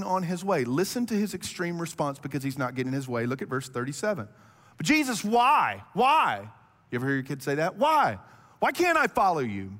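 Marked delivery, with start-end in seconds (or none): 4.8-9.7 put-on higher, louder whiny child asking why; mock little-child pleading; childish whining. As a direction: whine like a toddler denied. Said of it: "like a little child here".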